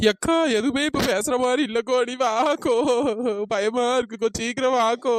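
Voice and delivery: frightened, whimpering plea; tearful pleading. Acted. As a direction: beg big sister to come along. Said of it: "எதுக்கு இப்படி அழுதுட்டு கிடக்கா". (அழுதுகிட்டே பயத்தோட கெஞ்சுறது)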